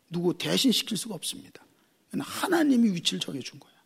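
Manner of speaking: hushed, breathy emphasis; whisper. Real, not acted. Preacher to congregation, solemn whisper. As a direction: lean in and whisper it.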